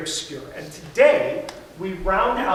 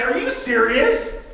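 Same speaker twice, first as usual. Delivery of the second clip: higher, louder, slowed excited question; excited disbelief; 6 semitones higher, 5 dB louder than usual. Acted. Child told about a Disney World trip, excited disbelief. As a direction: stretch it out in thrilled disbelief. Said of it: "you find out that you're going to Disney World".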